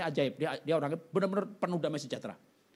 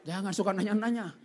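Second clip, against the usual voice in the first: laughing it off at himself; rueful laugh while scolding himself; 6 semitones higher, 6 dB louder than usual. Real, not acted. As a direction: chuckle through the words, loud at first. Self-mocking after sad story.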